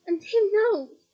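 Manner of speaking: a hint of mad laughter, loud. Harry taunting Bellatrix, a hint of mad laughter. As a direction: taunt her, half-crazed. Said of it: "said Harry with a mad laugh".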